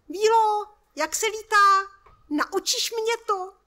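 put-on high, loud little girl calling up; child calling out. A narrator's reading. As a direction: call up to the fairy like an eager small girl. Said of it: "volá holčička". (holčička volá nahoru, vysokým hlasem)

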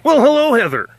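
high, loud sing-song hello; sing-song well hello; delighted greeting. Real, not acted. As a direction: greet her like a star arriving. Greeting cat with a flourish.

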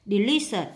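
"delicious" stressed on "li"; second-syllable stress. Shown as a demonstration. Teacher marking word stress, "delicious" stressed on the second syllable. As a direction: lean on LI in "delicious". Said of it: "nhấn âm hai".

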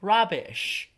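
indignant retort. A narrator's reading. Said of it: "said Thomas".

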